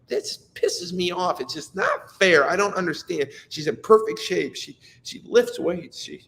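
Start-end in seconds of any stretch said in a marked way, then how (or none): 0.1-3.3 angry outburst. Retold or imitated. Father railing at his daughter's diabetes, indignant outburst. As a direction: let the unfairness boil over. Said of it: "I'm like".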